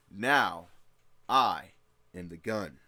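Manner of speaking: loud, separated "Now", "I", pauses between; emphatic declaration. Acted. Mercenary declares himself the weapon, NOW and I punched. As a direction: punch NOW and I loudly, then drop on "am the gun".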